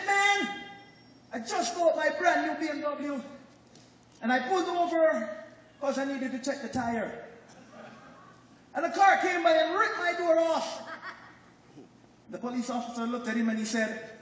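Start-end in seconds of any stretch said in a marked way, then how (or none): 0.1-10.8 put-on Jamaican Patois accent with amused laughter in it. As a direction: retell the complaint in Jamaican Patois, chuckling. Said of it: "So I'm gonna speak in Patois".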